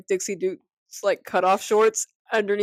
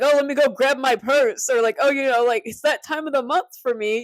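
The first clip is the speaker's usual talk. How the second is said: lightly put-on higher, louder voice; playing a girl; 5 semitones higher, 4 dB louder than usual. Retelling a boy too into his role, playful mimicry.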